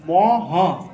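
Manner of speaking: ম and হ said as two separate slow sounds; spelled-out sounds. Shown as a demonstration. Teacher breaks the Sanskrit sound into ম and হ for students. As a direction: split it into ম then হ, clearly apart. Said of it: "সংস্কৃত উচ্চারণ".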